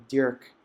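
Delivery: Dirk said the Flemish way, roughly "Dyoork"; Flemish pronunciation. Shown as a demonstration. Correcting a friend's name for listeners, Dirk pronounced in Flemish. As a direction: give Dirk a careful Flemish vowel, "Dyoork". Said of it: "as we would probably pronounce in Flemish".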